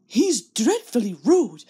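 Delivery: prim, slow, fluttery coach voice; twittering coach. Acted. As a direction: tut like a shocked old lady. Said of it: "they twittered to each other".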